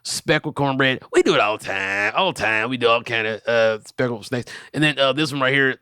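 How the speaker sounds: dubbed video voice. Acted. Dubbing a video for friends, proud snake-seller voice. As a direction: voice over a stranger's video like a proud salesman. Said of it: "Dubbing videos".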